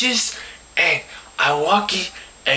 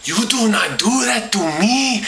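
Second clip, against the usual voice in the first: indignant; 2 semitones higher than usual. Retold or imitated. Indignant retort after the gesture.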